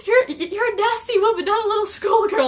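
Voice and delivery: high, loud put-on goblin voice; mock goblin insult; imitating Griphook. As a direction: snipe it in a squeaky sneer. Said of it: "and Gryffindor goes".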